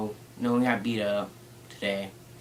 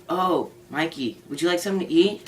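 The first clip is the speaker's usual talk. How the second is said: parent voice; 6 semitones higher than usual. Retold or imitated. Parents voiced in drive-thru.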